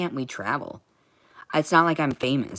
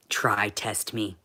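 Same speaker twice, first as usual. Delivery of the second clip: slow threat; 4 semitones lower, much slower than usual. Retold or imitated. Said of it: "my aggressive tone".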